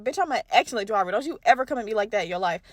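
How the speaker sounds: put-on offended boyfriend. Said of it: "he gonna listen to this and be like".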